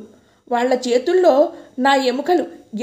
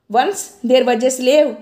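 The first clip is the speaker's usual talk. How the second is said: reciting a lesson; much slower than usual. Retold or imitated. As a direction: bellow it word by word like a drilled lesson. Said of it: "English పాఠం బిగ్గరగా అప్పచెపుతున్నట్టు".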